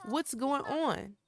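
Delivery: hammed-up soap opera confrontation; Nikki's stunned demand. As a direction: ask it as a stunned, hurt Nikki. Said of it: "Nikki was like".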